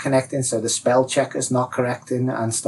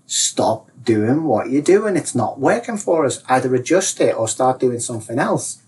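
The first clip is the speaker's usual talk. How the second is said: insistent inner advisor; 3 semitones higher, 4 dB louder than usual. Acted. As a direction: press the warning home with punched words. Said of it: "the advisor's getting more and more stronger".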